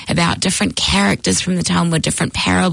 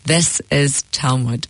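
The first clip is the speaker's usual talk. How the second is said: rabbi's punchline; 4 semitones lower, slower than usual. Acted. Rabbi delivers joke punchline.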